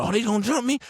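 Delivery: high, loud mock challenge; hammed-up squawk of disbelief; indignant disbelief. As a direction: act out fired-up outrage at being ganged up on. Acted outrage in retold fight.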